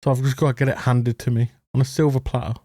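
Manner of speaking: a hint of a sneering entitled moan; mocking whiner. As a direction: mimic someone wanting it all handed over. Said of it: "They're like".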